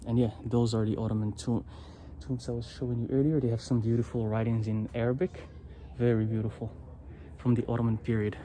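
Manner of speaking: muffled behind a mask; through a face mask. Real, not acted. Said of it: "It's so hard to talk with these masks on".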